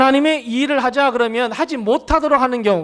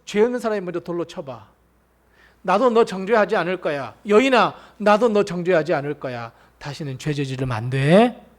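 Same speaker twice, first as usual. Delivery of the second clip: gentle Jesus; 3 semitones lower than usual. Acted. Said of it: "예수님 뭐라 그러셨어요".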